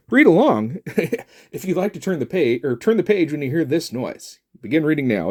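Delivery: hammed-up storybook record voice; read-along narrator. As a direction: announce it like an old read-along tape.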